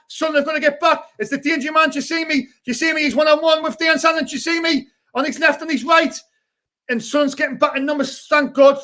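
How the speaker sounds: running fan commentary; live match commentary. Acted. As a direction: call the game for the live chat.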